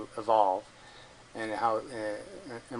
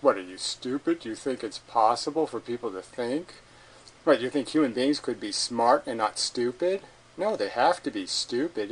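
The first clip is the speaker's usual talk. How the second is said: mock rude, incredulous challenge. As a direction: throw it out like a mildly scornful challenge. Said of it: "in this rude kind of way".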